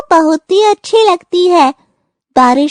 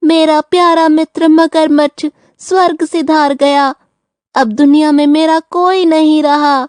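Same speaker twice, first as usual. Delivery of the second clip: feigned grief. Pretend. Turtle tells jackal his crocodile friend died, feigned grief. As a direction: lament as if bereaved, only pretending. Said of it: "क्यों रो रहे हो".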